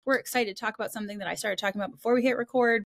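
rushed, excited podcast welcome; fast and excited; talking really fast. Real, not acted. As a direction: race through the introductions, eager to start. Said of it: "I am talking really fast".

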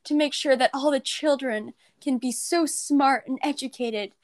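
sarcastic impression of a tired old teacher; mocking the teacher. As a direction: mimic a burnt-out teacher mockingly. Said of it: "be like".

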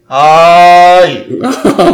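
loud drawn-out granny call; old woman voice. Pretend. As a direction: call out like a storybook grandma. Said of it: "もう一緒やわ".

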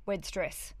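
unvoiced whisper of Wed stress; hushed whisper. Shown as a demonstration. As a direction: breathe the words Wed stress. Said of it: "whispered repeat".

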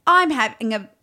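put-on lightly done British accent. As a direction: recite the lines with a touch of British. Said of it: "they made me do a British accent".

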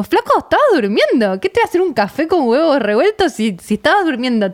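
retold protest to a partner; indignant retort. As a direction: act out a mildly exasperated comeback. Retells indignant reply to husband.

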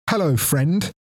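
high-pitched toy doll greeting; talking Winnie the Pooh. Retold or imitated. Friend imitates his talking bear doll, high toy voice. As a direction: lilt it like a pull-string toy. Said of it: "it'd wiggle its nose and go".

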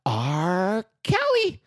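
put-on high, loud kid's pirate growl-word punchline; pirate accent. Son delivering pirate punchline to dad, high pirate accent. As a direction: imitate a child's squeaky pirate accent. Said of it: "fix your pirate accent".

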